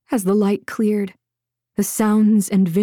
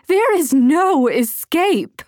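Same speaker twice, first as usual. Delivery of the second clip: taunting villain; 8 semitones higher, 3 dB louder, slower than usual. A narrator's reading. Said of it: "Rufina sang from behind".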